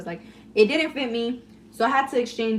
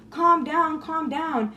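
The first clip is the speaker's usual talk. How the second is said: higher-pitched soothing plea; imitated calming sister; 6 semitones higher, slower than usual. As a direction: lightly imitate someone calming you down. Acts out sister soothing her.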